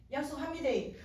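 plain promise with a Gyeongsang dialect lilt. Retold or imitated. Woman promising the Lord, Gyeongsang dialect. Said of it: "막 경상도 말로 막 말했습니다".

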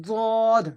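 দদ with tongue edge against upper molars; tongue-side দদ. Shown as a demonstration. Teacher modelling a hard letter, tongue-edge দদ. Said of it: "মাড়ির দাঁতের গোড়ার সাথে লাগিয়ে".

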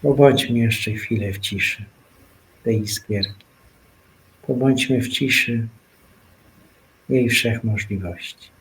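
hushed meditation guide; guided meditation. Acted. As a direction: let the words settle into quiet. Invites listeners into silent meditation.

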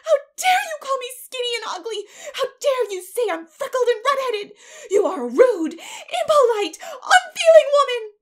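high, tearful, shouted tirade; child's outraged screaming; passionate indignation. A narrator's reading. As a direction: hurl each accusation at full voice. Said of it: "passionate indignation exhaling from her".

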